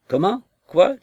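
high, startled outburst; a father who can't believe his ears; shocked disbelief. Acted. Father stunned by daughter's refusal.

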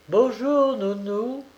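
high, singsong hello; called-out greeting. A narrator's reading. Young mother greeting the nursemaid, brightly called out. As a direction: toss out a high-pitched, carefree greeting. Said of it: "lançait la jeune femme à Anne".

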